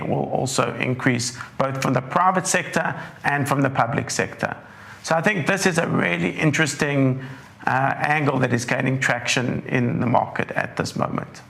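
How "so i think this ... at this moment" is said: slightly croaky, dry throat. Real, not acted. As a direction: talk through a croaky throat. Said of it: "with my croaky voice".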